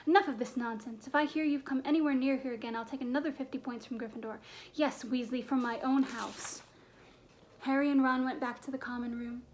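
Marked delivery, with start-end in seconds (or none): 0.1-6.6 stern, angry telling-off; storming. Acted. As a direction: lay down the threat crossly. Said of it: "she stormed".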